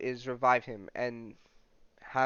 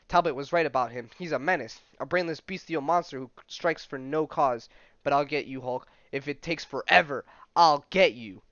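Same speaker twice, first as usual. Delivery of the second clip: rising, louder furious threat; angry vow; 5 dB louder than usual. Acted. General vowing revenge on the Hulk, loud and furious. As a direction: swear to hunt him down forever.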